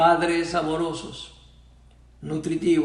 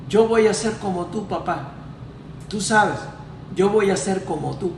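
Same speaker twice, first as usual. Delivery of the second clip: put-on innocent child voice; 4 semitones higher than usual. Son keeps telling his distant father in a lightly innocent voice. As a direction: mimic an eager child who admires his dad. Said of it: "con su voz inocente".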